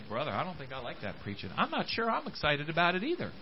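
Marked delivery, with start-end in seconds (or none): 0.1-1.5 quick, much softer mock complaint from a churchgoer; mock grumbling listener. Preacher imitating a listener who dislikes the sermon, soft and quick. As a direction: toss off a congregant's half-hearted gripe, hushed. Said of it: "you say".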